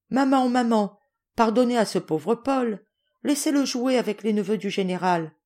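put-on high, childlike pleading; pleading cry. Jacques begging mother to forgive Paul, pleading. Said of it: "s'écria Jacques en joignant les mains".

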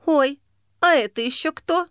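put-on a flighty girl caught off guard; surprised girlfriend. A narrator's reading.

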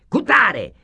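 high, loud name called out; roll call shout. Acted. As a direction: call the name across the room.

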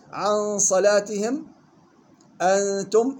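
عن and أنتم with held nasal nun; true ikhfa. Shown as a demonstration. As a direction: hide the nun of عن and أنتم in a long hum. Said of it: "إخفاء حقيقي". (عن صلاتهم، أنتم بإخفاء النون مع الغنة)

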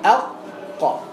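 ordinary talk, nothing marked

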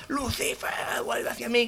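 losing his voice. Acted. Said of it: "que se está quedando ya sin voz".

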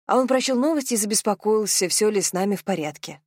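«с нами» pointedly emphasized by intonation; stress on «с нами». A narrator's reading. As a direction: lean on the words «с нами». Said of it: "она подчеркнула интонацией". (интонацией подчеркнуть «с нами»)

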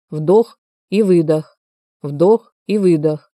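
slow, steady breathing count. Acted. Uncle coaching his sick nephew to breathe, slow and steady. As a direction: pace each word slowly, calm and even.

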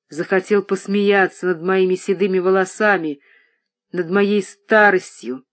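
громче, с надрывом, местами медленно; бросать проклятия обманщику; гневный крик. Acted. Отец в ярости кричит. (отец в ярости ругает обманщика дочери: гневный крик)

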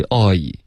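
oi as Chinese "o" gliding into "yi"; correct diphthong. Shown as a demonstration. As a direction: slide oi from rounded "o" to "ee". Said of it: "就像中文的哦".

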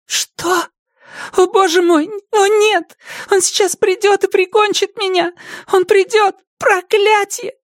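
put-on panicked girl. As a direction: blurt it out in high panic. Zoe panics. (Зои в панике кричит Робин, высокий испуганный голос)

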